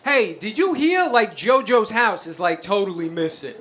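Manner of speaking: a hint of a slow Jersey guy asking around; Guido cousin. Cousin walking in to ask about a missing house, lightly voiced Guido. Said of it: "he comes in and he's just like".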